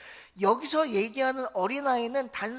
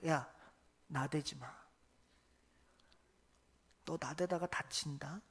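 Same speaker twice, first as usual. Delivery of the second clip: put-on kids' slang; 5 semitones lower, 8 dB quieter than usual. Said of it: "애들 말로 할게요".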